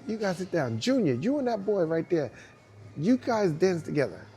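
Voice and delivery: imitating a father's command. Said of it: "So I'm like".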